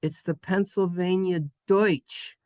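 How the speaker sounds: "Deutsch" with a clear oi sound; corrected German Deutsch. Shown as a demonstration. Teacher correcting the name, "Deutsch" said as doych. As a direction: land firmly on the oi in "Deutsch". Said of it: "heard Deutsch and they didn't want".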